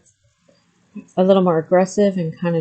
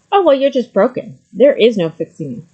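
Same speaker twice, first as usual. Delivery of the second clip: mock dismissive retort, pitched up and louder; retold dismissive put-down; 3 semitones higher, 5 dB louder than usual. Partner answers a crying woman asking how to improve, mock dismissive. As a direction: imitate a partner writing someone off, louder.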